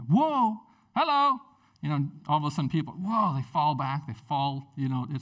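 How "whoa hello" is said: high, loud mock surprise; startled reaction. Preacher acting out the crowd's shock at "I am", startled. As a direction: act taken aback, voice jumping up.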